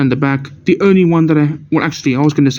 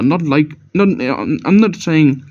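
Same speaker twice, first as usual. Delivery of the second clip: real tongue-tied false starts; stuttering. Real, not acted. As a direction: trip over the words and keep restarting. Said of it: "I'm stuttering again".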